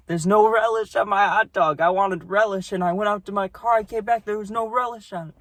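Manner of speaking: mimicking a cranky old customer; old lady. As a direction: squeak it like an irate old woman. Angry old lady voiced in story.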